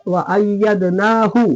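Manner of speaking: अय्यदनाहु with long naa, then brief hu; slow chant, final हु of अय्यदनाहु kept short; quick short hu. Shown as a demonstration. Teacher modelling for students, अय्यदनाहु with short hu. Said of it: "जल्दी".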